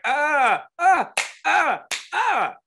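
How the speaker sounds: high, loud, strained ah sounds; rising excited ah-ah-ah squeals; excited fan squeals. Retold or imitated. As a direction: imitate an overwhelmed fan squealing. Imitating the girl's excited noises.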